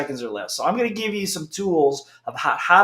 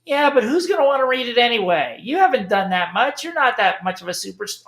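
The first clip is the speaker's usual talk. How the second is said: doubting inner voice; 6 semitones higher than usual. Retold or imitated. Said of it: "your little voice goes".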